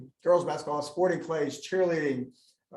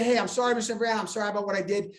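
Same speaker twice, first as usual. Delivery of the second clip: mock apology; 3 semitones higher, faster than usual. Shown as a demonstration. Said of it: "if you wanna say".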